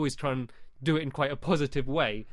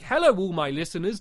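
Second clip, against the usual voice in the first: mock formal greeting; 4 dB louder than usual. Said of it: "Don't start your videos going".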